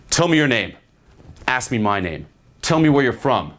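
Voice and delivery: short separate commands, each falling at the end; bossy orders. Shown as a demonstration. Coach demonstrating bossing a girl around, ordering. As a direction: fire off orders with a pause after each. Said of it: "just order and boss the girl around".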